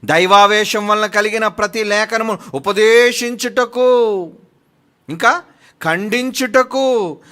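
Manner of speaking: loud, high, slow declaiming; preaching at full force. Acted. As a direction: thunder the verse to the crowd. (గట్టిగా, ఉద్రేకంగా వాక్యం ప్రకటిస్తూ)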